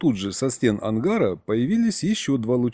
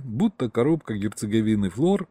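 ordinary delivery, nothing marked

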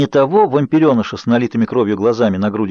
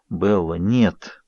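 slow, low, firm refusal; insistent; 4 semitones lower, 3 dB quieter, much slower than usual. A narrator's reading. Edward stopping Bella's kiss, slow firm insistence. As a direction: hold her off with a firm no. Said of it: "Настойчиво проговорил он".

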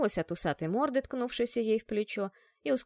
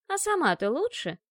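фыркнула; 7 semitones higher, 4 dB louder than usual. Acted. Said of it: "фыркнула Илоланта".

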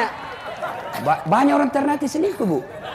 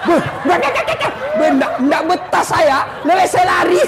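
jinn fleeing in panic; 8 semitones higher than usual. Acted. Old jinn fleeing the nagging wife in the well, panicked. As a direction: cry it out like a spirit who can't stand it.

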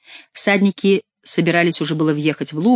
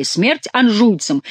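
higher, drawn-out mock shout; quoted battle cry; 5 semitones higher, much slower than usual. Quélus throws Chicot's cry back at him, mock shout. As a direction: quote the slogan slowly, voice lifted. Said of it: "Конечно, кричали".

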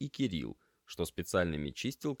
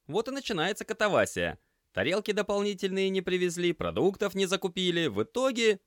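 high, loud casual explaining; raised voice; 14 semitones higher, 6 dB louder than usual. Acted. Semyon tells Lena over the din, high and loud. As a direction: talk over the kitchen noise.

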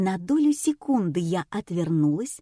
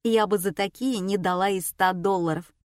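ordinary delivery, nothing marked

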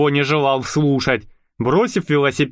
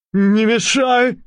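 high, slow snarl; snapping; 8 semitones higher, slower than usual. Acted. Crazed tramp snapping at the newcomer, slow snarl. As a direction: snap at him like a madman. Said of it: "огрызнулся полоумный бродяга".

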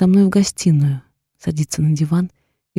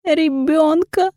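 tearful confession; 9 semitones higher, much slower than usual. A narrator's reading. Heroine sobbing confession.

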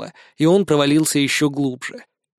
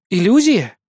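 caustic retort; 4 semitones higher, 4 dB louder than usual. A narrator's reading. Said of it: "едко произнесла Катя".

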